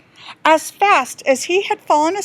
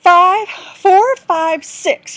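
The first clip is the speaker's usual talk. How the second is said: eager counting; 5 semitones higher, 8 dB louder, much slower than usual. Acted. Counting the dice excitedly.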